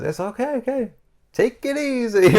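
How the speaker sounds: put-on high, laughing New York accent. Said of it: "Love that video".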